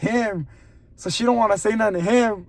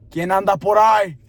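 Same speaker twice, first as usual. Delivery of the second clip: deep grandma call; 7 dB louder than usual. Retold or imitated. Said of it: "deep voice and all".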